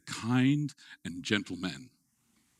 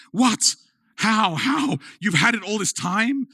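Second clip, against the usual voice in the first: much higher, louder disbelief; astonished; 13 semitones higher, 9 dB louder, slower than usual. Retold or imitated. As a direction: gasp it out through tears. Boys react to mother's reveal.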